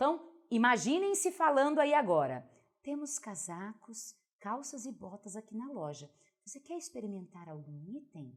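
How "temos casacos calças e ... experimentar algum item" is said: barely audible, very quiet voice. A trainer demonstrates a mistake, voicing a shop assistant; very low volume. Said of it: "Olha só esse volume".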